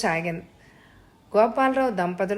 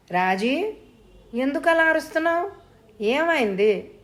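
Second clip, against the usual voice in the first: high, fast, panicked questions; a worried man begging to know what's wrong; anxious questioning; 7 semitones higher than usual. A narrator's reading. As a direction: rush the words out in alarm, voice shooting up. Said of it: "అని కంగారుగా అడుగుతున్నాడు".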